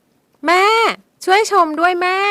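high, loud cry to mother; girl cries out to her mother for help; calling for help. Acted. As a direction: call out desperately. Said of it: "เธอจึงตัดสินใจเอ่ยออกไป".

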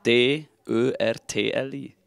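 spelling it out. Real, not acted. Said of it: "wie würdest du Erdbeertörtli buchstabieren".

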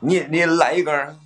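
put-on loud playful Dongbei accent; Northeastern accent. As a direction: offer it the Dongbei way. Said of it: "说你能说东北话".

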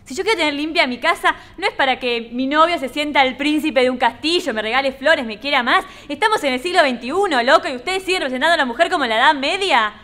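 fired-up, lively indignation, pitch climbing; exasperated protest, gathering steam; indignant rant. Acted. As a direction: tell them off for an outdated script. Actress rants at sexist casting script.

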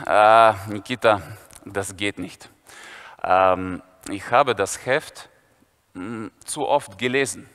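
slow deep mock schoolboy; Viktor's voice. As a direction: drop deep and drag it out as Viktor.

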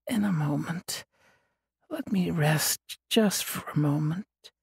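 sleepy whisper. Acted. Weak Des pleading to rest.

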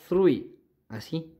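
"three" with a lisped Spanish z, like "thrui"; "three" with a soft th at the start; pronunciation demo. Shown as a demonstration. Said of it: "como que fuera así".

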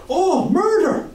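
high, slow, loud howl of pain; hammed-up yell of murder; pained outcry. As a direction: cry out as your hand is crushed. Paddy cries out in pain.

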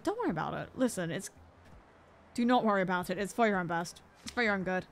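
lightly voiced game, low and dismissive; game's voice. Player voicing what the game tells them, lightly mock-reassuring. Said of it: "the game is literally just saying".

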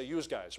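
"yous guys" said as the local plural you; northern yous guys. Shown as a demonstration. Preacher showing the local northern plural to the congregation, casually. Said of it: "up here we say".

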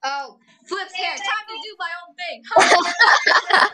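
high, hammed-up anime girl voice; overacted anime dub. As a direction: flip your hair and gush like a dub heroine. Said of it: "can you do your favorite anime character voice impression".

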